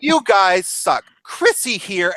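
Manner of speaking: slow, smug taunting drawl; mock smug. Tomboy mocking her friends after faking death, smug slow taunt. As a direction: tease them for failing her.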